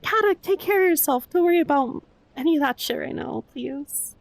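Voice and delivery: fond, flustered scolding; worried insistence. Real, not acted. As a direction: insist that a friend look after themselves. Worried scolding of generous friend.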